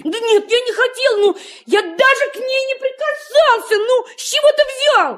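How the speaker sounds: put-on a child hotly defending himself against blame. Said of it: "Не кричи на меня".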